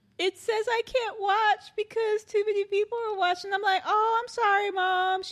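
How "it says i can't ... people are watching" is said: super sad, let-down tone, acted out. Retelling what the speaker's mom said when she called, imitating mom's sad voice. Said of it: "she had like this really sad voice".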